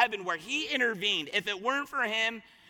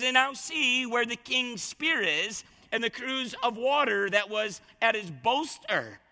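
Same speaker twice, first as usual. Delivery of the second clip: taunting. Acted. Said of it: "he's just taunting him".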